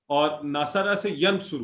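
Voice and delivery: ینصر spoken slowly and clearly; slow demo. Shown as a demonstration. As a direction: stretch out نصر to ینصر. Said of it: "یہاں پہ کیا ہوا ہے؟".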